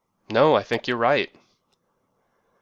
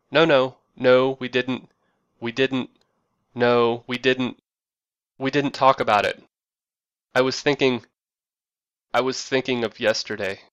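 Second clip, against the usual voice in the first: mock-exasperated denial, louder; combative phone call; 4 dB louder than usual. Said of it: "the combative calls".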